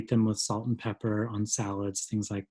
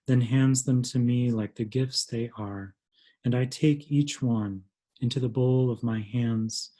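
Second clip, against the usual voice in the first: measured poetry reading, pausing between phrases; unhurried recital, each phrase set apart; poem reading. Acted. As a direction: read your poem to a gathering, line by line. Reads own poem aloud.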